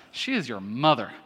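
"is" stressed with a falling end; pointed emphasis. Shown as a demonstration. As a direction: land hard on "is". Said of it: "I think you have to say it that way".

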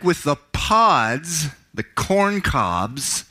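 dramatic Bible reading, voicing the characters; scripture reading. Pastor to congregation, dramatic scripture reading. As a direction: read the parable with feeling, rising for the son's pleas. Preacher reads the prodigal son.

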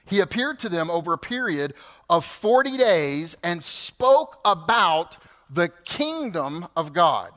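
normal talking voice

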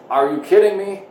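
high, loud mimicry of a three-year-old; cute toddler yell. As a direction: imitate a little boy yelling it out. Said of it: "he just yells it out".

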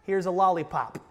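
put-on slow, patient parent coaxing a child; soothing parent. Parent soothing a scared child at the dentist, mildly mock calm. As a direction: talk a crying child down slowly. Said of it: "You say".

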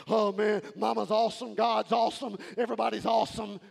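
lightly voiced overjoyed player, half sung; giddy athlete. Winning player in the postgame speech, gushing. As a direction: gush like a dazed winner in an interview. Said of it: "and they're going".

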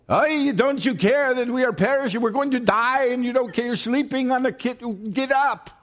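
hammed-up Jewish complaint to a sleeping teacher; Jewish way of saying it. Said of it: "a very Jewish way".

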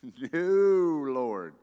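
startled refusal to God; protesting cry. Acted. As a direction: cry out no to the Lord. Peter protests the voice.

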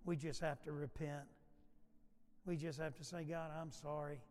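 earnest pastor praying aloud; measured prayer, phrase by phrase, falling at the ends; public prayer. Real, not acted. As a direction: lead a congregation in heartfelt prayer. Leads the congregation in prayer.

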